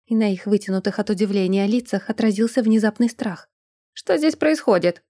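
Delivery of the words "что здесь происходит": booming. Acted. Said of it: "громыхнул со стороны коридора".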